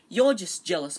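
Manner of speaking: loud little protest; piping up. A narrator's reading. Small boy defending Harry to Malfoy, piping up. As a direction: pipe up in defence. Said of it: "piped up Colin".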